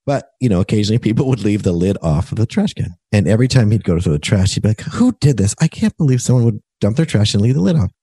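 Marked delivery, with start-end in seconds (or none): 4.8-7.9 mild retold irritation. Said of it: "made him irate".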